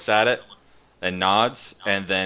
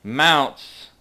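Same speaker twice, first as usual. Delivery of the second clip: higher, slow, pointed emphasis; pointed insinuation; 6 semitones higher, 6 dB louder, slower than usual. Acted. Guard hinting at the riders' stolen mounts, pointed insinuation. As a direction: draw it out to insinuate suspicion.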